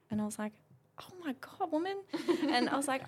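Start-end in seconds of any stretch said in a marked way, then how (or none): 1.0-2.0 high, airless whisper of mock dismay; whispered exasperation. Telling friends how she reacted to the therapist, in a high mock-dismayed whisper. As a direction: breathe it out like a shocked aside.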